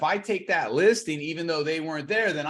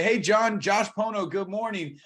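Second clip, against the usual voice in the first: bright, upbeat phone greeting, raised pitch and volume; cheery phone greeting; 4 semitones higher than usual. Retold or imitated. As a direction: greet them like an eager agent on a cold call. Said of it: "how many times we'll say".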